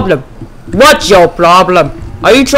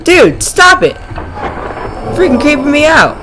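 scared screaming; 10 semitones higher than usual. Real, not acted. Gamer creeped out by the mannequin, high screams. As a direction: scream and beg it to stop.

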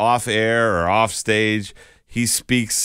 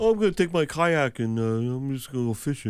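mock tough guy; 5 semitones higher than usual.

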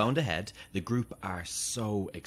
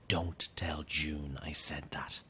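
slow whispered secret; conspiratorial whisper; 4 semitones lower, 7 dB quieter, slower than usual. Acted. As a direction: whisper it behind June's back. Secret about June's home.

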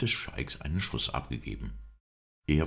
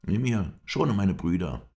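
higher, louder, drawn-out plea; pleading; 7 semitones higher, 6 dB louder than usual. A narrator's reading. Brother begs mercy for his brothers, pleading. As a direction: beg with raised pitch and force. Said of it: "bat er".

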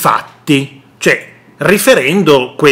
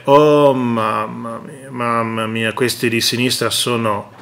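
exasperated Crosetto; 4 semitones lower than usual. Retold or imitated. Minister dismissing the left, low weary exasperation. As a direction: sound worn out by the other side. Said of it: "Ma Crosetto dice".

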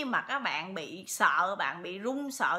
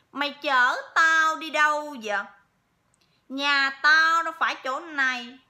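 loud, higher, gruff voice of the spirit; gruff possessed voice; 6 semitones higher, 11 dB louder than usual. Retold or imitated. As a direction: bark at the wife like a stranger possessing him. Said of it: "đao to búa lớn á". (giọng ma nhập cọc lóc, to và gắt)

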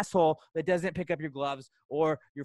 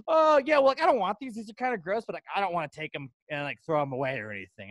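mocking careless shopper. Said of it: "And it's like".

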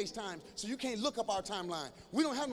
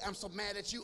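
soft mock mad text; 5 dB quieter than usual. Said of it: "don't say".

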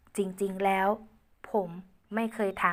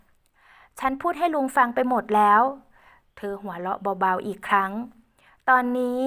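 put-on higher, louder girl voice; confessing young woman; 3 semitones higher, 5 dB louder than usual. Ae confessing her feelings to Uncle Uan, high girlish voice. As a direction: confess boldly as Ae.

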